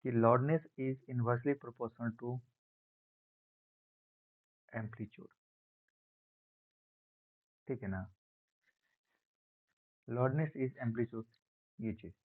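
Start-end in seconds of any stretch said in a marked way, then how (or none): 0.1-5.3 very slow, spelled-out dictation; dictation pace. Shown as a demonstration. Teacher dictating a formula for notes, very slowly. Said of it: "ऐसे लिख सकते हैं हम लोग". 10.1-11.2 very slow, word-by-word dictation; dictation pace. Shown as a demonstration. Teacher repeating the rule slowly for students to copy. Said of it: "ऐसे लिख सकते हैं हम लोग".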